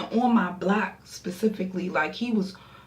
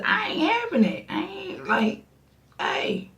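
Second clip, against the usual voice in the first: high outraged squeal; 12 semitones higher than usual. Real, not acted. Outraged refusal.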